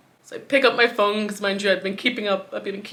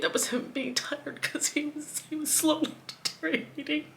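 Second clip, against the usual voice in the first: soft, voiceless whisper, breaking into a laugh; a broken laugh-whisper through grief; grieving whisper; 6 semitones higher, 9 dB quieter than usual. Real, not acted. Grief, self-blame.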